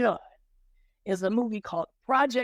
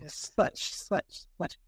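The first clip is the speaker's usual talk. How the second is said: whispering; 4 dB quieter, much slower than usual. Real, not acted. Trailing off in disbelief.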